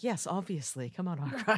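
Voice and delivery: smug dismissive. Acted. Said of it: "being like".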